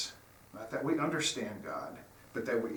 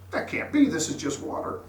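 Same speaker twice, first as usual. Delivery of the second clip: disbelieving little fish; 3 semitones higher, 4 dB louder than usual. Retold or imitated. Little fish refuses to believe.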